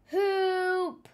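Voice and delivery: loud, high cry for help; hammed-up scream for help; panicked scream. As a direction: yell as if drowning. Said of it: "he screamed".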